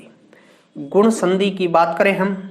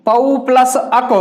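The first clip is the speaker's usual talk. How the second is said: slow split; slower than usual. Shown as a demonstration. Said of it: "उसको बाहर निकालकर plus के बाद लिखते हैं".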